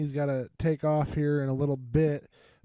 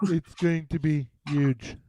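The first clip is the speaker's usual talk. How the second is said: Trump impression. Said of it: "you fucking nailed it".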